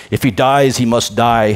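lightly imitated Russian accent; a hint of badly faked Russian; terrible Russian accent. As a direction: attempt a bad Russian accent. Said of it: "That's a terrible Russian accent".

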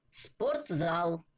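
slow "спортзал", split as sport-zal; syllable by syllable. Shown as a demonstration. Teacher showing learners the joined word, slowly syllable by syllable. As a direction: stretch both halves of "спортзал". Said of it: "як ми читали по складах".

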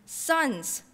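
Sons! thrown up high in stunned disbelief; shocked disbelief. Acted. Jilted writer reeling at her lover's secret sons, shocked. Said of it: "I did nearly swallow my whole tongue".

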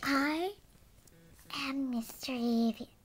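whispered name. Pretend.

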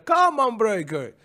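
"Come on" agudo como locutor de videojuego; voz del juego. Retold or imitated. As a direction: imita al anunciador de Killer Instinct. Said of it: "decía". (imitando la voz del videojuego)

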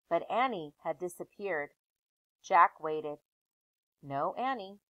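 put-on lively read-aloud voice for children; story narration. Teacher reading a chapter book aloud to her class.

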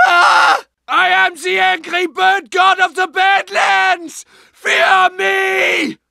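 German accent, a mock-grand shouted boast; mad proclamation. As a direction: crown yourself a mad god, German accent. Proclaims himself bird god.

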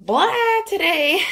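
a quick mock "blah" pitched high; croaky voice demo. Shown as a demonstration. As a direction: show how rough the voice feels with one "blah". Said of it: "my voice is like".

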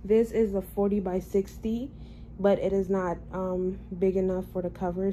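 talking with tight new braces; speech a bit off from braces; sore after braces tightening. Real, not acted. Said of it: "excuse my speech. I just got my braces tightened".

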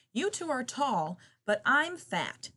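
loud, high, slow snort; snorting hippo. Acted. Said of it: "snorted the hippopotamus".

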